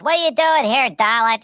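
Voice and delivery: high mock robot challenge; a hammed-up Cyberman demanding answers; Cybermen. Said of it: "the Cybermen are like".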